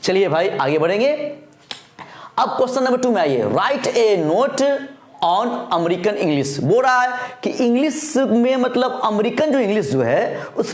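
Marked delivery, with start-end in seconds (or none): 3.4-6.6 reads out the exam question word by word, slow; slow dictation reading. Acted. Teacher dictating the exam question to students, slow and measured. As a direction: spell out the question slowly for students to copy.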